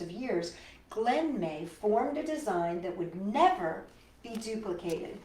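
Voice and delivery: put-on lively storybook narration for kids; reading to children. A narrator's reading. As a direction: read it like a picture book to little ones. Reads picture book aloud.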